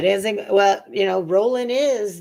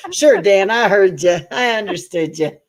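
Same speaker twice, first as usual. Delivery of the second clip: mock exasperated wife; 7 dB louder than usual. Wife answers Dan, exasperated.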